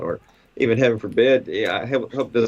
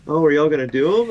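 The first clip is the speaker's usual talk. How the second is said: imitating the lady; 5 semitones higher, 4 dB louder than usual. Voicing the lady again.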